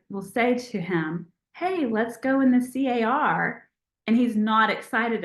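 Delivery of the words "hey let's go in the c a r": C A R spelled letter by letter. Shown as a demonstration. Asking the dog to ride, spelling C A R so he won't understand. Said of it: "I have to spell it".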